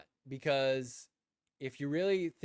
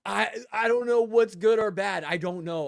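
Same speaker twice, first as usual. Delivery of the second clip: louder, laughing through it; laughing embarrassed admission; laughing confession; 5 semitones higher, 8 dB louder than usual. Real, not acted. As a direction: laugh at yourself while admitting it. Admitting confusion, laughing loudly.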